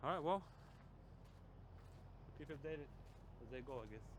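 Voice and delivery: talking through braces; words slurred by braces. Real, not acted. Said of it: "I'm sorry for my talk. I'm wearing braces".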